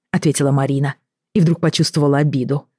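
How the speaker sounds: usual speaking voice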